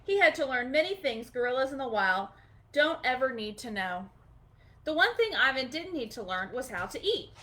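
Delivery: gentle storybook reading; storybook read-aloud, gentle and clear; reading to children. Acted. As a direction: read it like a bedtime picture book. Reading picture book aloud.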